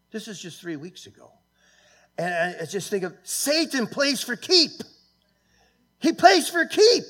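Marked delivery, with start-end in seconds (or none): 3.2-4.7 rising preacher's warning. Real, not acted. 6.0-7.0 much higher and louder, slow, full-force preaching; preacher's peak shout. Real, not acted. Preacher repeats, climaxing.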